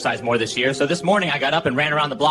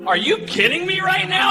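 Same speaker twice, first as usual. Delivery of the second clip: mock yelling wife. Wife freaking out at the couples massage, mock yelling. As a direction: imitate a wife losing her mind in a much higher voice. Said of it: "She's yelling, losing her mind".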